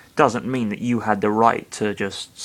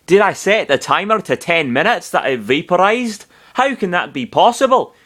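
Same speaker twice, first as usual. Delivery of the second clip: high, swooping baffled questions; confused; 7 semitones higher than usual. A narrator's reading. Narrator voicing Falco asking himself, confused. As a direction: puzzle it out in a high, incredulous voice.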